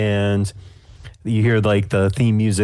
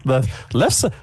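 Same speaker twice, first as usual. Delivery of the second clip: high judge voice; 12 semitones higher, slower than usual. Acted. Judge mishears lefse.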